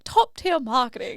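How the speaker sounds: posh British granny. Retold or imitated. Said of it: "And she's like".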